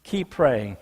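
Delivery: low, soft, drawn-out refrain. Real, not acted. Preacher closing each case with a soft low refrain. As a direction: drop the voice low and quiet on the refrain.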